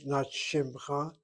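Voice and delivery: shimcha with the shva silent, shim-cha; slow demo of the wrong shimcha; wrong pronunciation. Shown as a demonstration. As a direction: shimcha said as two syllables. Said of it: "not, not ma shimcha".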